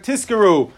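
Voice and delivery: "Tizkaru" said as "Tiskaru", with an s; blurred Zayin. Shown as a demonstration. Teacher warning against a misreading, blurred Zayin. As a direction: let the z in "Tizkaru" slip into a hissed s. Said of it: "so it shouldn't sound like".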